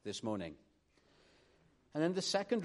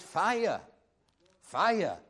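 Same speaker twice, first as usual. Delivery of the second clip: raised, louder mock street shout; imitated cry of alarm; 5 semitones higher, 7 dB louder than usual. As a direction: call it out like a street preacher raising the alarm. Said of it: "And he cried".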